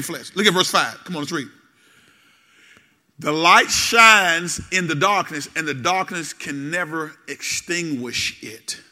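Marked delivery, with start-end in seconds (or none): 3.2-8.8 scripture reading. Acted.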